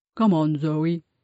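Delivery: gentle, soft voice. Grandad urges zoe to come along with him, said softly. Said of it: "he said softly".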